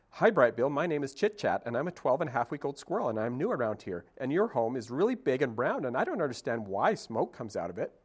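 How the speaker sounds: lightly voiced young squirrel, bright and eager; a hint of a chattering little squirrel; a squirrel rambling on to a new friend; chatty squirrel. Squirrel character voice.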